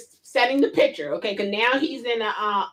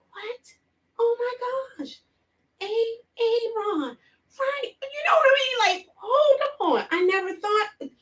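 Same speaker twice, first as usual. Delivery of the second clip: high squealing laughter; 12 semitones higher than usual. Real, not acted. Scene: remembering the clip, squealing high with laughter. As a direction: squeal in disbelief.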